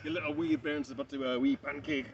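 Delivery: put-on broad Scottish accent. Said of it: "these kinds of voices".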